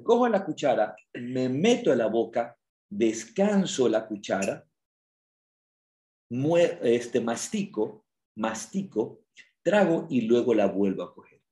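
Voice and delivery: slow, calm, unhurried step by step; slow mindful demo. Shown as a demonstration. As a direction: take your time with every bite. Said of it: "pero es el ejemplo". (demostración lenta y pausada)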